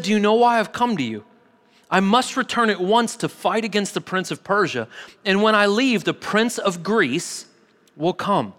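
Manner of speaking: measured Bible reading with pauses between phrases; solemn public reading of scripture. A narrator's reading. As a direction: read the passage aloud, phrase by phrase. Reads scripture aloud to congregation.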